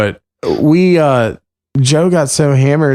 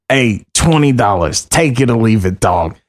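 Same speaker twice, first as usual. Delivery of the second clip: impression of Joe; 4 semitones lower than usual. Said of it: "impression of you".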